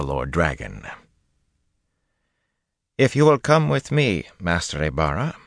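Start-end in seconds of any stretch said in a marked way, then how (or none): 3.0-5.3 calm. Acted. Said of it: "the woman said calmly".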